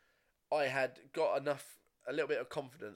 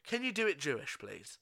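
quoting the teacher; 8 semitones higher, 3 dB louder than usual. Retold or imitated. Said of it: "And I was told".

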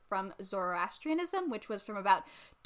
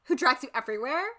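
mock snarky demon; 5 semitones higher than usual. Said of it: "She was like".

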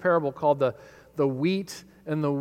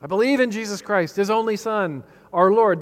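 higher, fervent creed recital; with vigor; 4 semitones higher, 4 dB louder than usual. Shown as a demonstration. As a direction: proclaim it with zeal. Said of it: "They're saying that with, with vigor".

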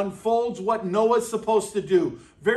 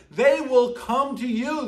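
higher, eager and punchy; emphatic excitement; 4 semitones higher than usual. Acted. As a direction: proclaim it with delight. Verse restated with emphasis.

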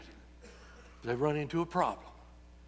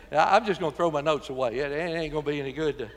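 laughing while talking; faster than usual. Real, not acted. Laughing at the chaos.

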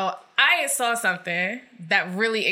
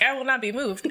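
laughing; 4 semitones higher than usual. Pretend. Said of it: "He's like".

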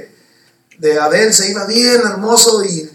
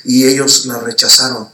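voice of God like thunder; 7 semitones lower than usual. Retold or imitated. Preacher voicing God from the sky. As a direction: speak like thunder from heaven. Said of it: "era una voz de trueno bien preciosa".

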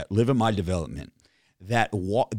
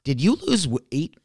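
imitating the neighbor; 4 semitones higher than usual. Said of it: "the one guy was like".

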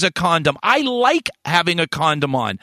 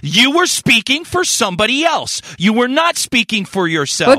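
yelling; 5 semitones higher than usual. Real, not acted. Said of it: "Boogie, stop yelling".

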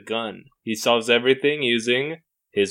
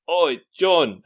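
mock British friend; 5 semitones higher than usual. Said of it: "his friend's also British".

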